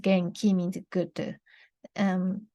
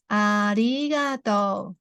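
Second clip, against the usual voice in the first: slow demo; slower than usual. Shown as a demonstration. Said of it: "Repeat after me".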